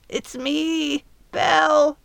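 high trapped fairy calling for help; high fairy cry. Acted. Trapped fairy Belle calls to Midge for help, high. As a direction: cry out small and high from inside the cage. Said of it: "a high, gravelly voice".

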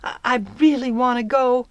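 high, stammering rush; hurried. A narrator's reading. Girl begging fairy to take her, hurried and high. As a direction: tumble through the apology, anxious to persuade. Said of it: "Pip hurried on".

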